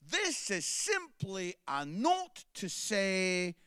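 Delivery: slow, sing-song card rhyme; reading the card verse. Retold or imitated. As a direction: read it out like a greeting card verse. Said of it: "which reads like this".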